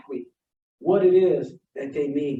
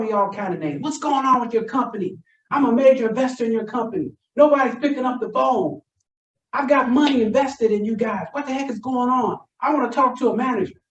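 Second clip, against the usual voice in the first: higher-pitched retold rant at the company; imitating a furious customer, higher; mock angry yell; 6 semitones higher than usual. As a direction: play the irate investor shouting down the phone, hammed-up. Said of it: "yelling to the top of his voice".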